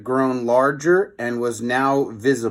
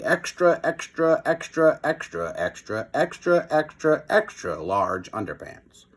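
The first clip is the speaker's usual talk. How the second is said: playful sing-song; 3 semitones higher than usual. Acted. Chapter title chanted playfully.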